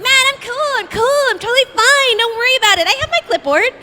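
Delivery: high, strained fake calm; mock cool. To friend Johnny, high forced calm. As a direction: insist you're fine while panicking. Nervous boast amid crushing crowd.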